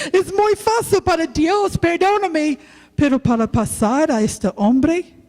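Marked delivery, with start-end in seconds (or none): 0.1-2.6 mock easy. Mocking how easy forgiveness is.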